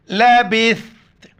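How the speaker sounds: لبثت recited smoothly, tha with tongue out; recited in full. Shown as a demonstration. Teacher recites لبثت for students, melodic. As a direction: intone لبثت as in the verse. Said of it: "سا کے وقت زبان باہر نکالنا ہے".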